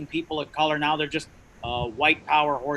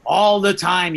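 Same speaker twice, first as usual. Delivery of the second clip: own strained voice; 3 semitones higher, 6 dB louder, slower than usual. Real, not acted. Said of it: "I sound like this all the time".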